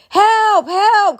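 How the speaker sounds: high, loud cry for help; demo help scream. Shown as a demonstration. Showing viewers how to call for help, high and loud. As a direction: yell it like you need rescuing. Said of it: "you start screaming for help".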